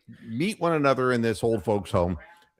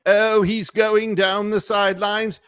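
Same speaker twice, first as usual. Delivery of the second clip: higher, louder excited sportscaster call; mock play-by-play; 8 semitones higher, 5 dB louder than usual. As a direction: call it like a touchdown run. Mock play-by-play of dog walk.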